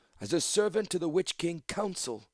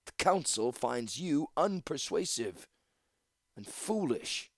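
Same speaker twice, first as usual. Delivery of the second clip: high, measured, stately reproof; old priestess dismissing an upstart; chiding; 5 semitones higher than usual. A narrator's reading. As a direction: scold her as one would a child. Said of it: "as if chiding a child".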